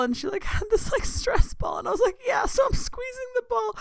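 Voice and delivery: cracking up at the memory, voice flying up; laughing squeal. Real, not acted. Laughing while recalling stress ball.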